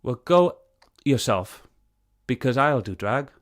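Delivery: indignant outburst; angry retort. Real, not acted. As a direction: fire straight back at the insult.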